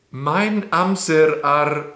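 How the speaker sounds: slow Welsh read as if Spanish or Italian; Spanish-Italian style reading. Shown as a demonstration. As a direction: sound it out slowly with Spanish or Italian vowels. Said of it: "reading all of these as if they're, like, Spanish or Italian".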